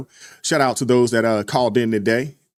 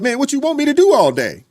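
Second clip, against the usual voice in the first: much higher, whiny stoner impression; mock stoner voice; 10 semitones higher than usual. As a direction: play the lazy guy begging to get high. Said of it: "They're like".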